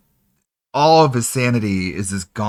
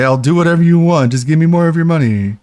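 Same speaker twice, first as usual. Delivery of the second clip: mock begging offer; 4 semitones higher, 4 dB louder than usual. Mocking proposition.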